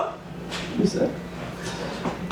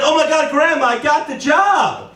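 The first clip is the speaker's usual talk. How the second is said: high, drawn-out announcement; excited good news; 7 semitones higher than usual. Acted. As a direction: break the big news to Grandma. Telling grandma good news.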